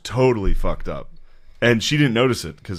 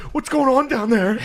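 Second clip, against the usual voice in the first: higher, laughing imitation of a flustered dad; drunk dad; 13 semitones higher than usual. Dad shouting down to the basement, laughing high mock alarm. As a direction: call down the stairs like a panicked, tipsy dad.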